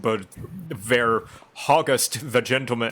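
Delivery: mock fantasy speak; lightly hammed-up archaic gibberish; Urianger. Mocking a character who speaks in poems, lightly hammed-up. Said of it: "And then Urianger enters the room".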